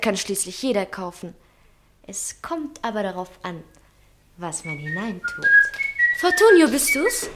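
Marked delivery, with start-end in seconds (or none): 6.2-7.3 calls the name out loud and high, falling at the end; calling Fortunio from across the room. Acted. Sabine calls out to Fortunio in the next room, calling loudly.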